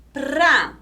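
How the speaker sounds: "Pra, Te, A, Da" as four separate beats; trilled PRA, then long pauses between syllables. Shown as a demonstration. Teacher splitting prateada for pupils, syllable by syllable. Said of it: "Vamos separar em sílabas".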